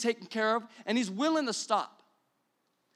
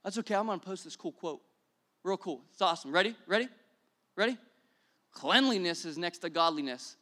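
mock shallow Christian; 3 dB louder than usual. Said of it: "walking around going".

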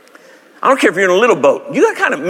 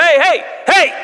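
casual Jesus; 12 semitones higher than usual. Retold or imitated. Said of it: "He said".

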